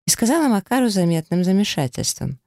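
ordinary delivery, nothing marked

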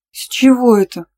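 high, loud stunned outburst. A narrator's reading. Girl shocked by her boyfriend's demand, high and loud. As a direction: blurt it out in shock. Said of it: "офигела я".

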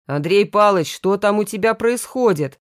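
loud worried call through a door; frightened call. Acted. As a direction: call out in alarm.

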